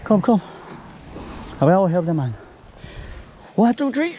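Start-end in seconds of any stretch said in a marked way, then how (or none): 3.5-4.2 lifting together. Real, not acted. Counting for a group lift.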